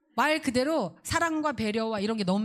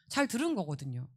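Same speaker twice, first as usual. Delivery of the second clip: ordinary talk, nothing marked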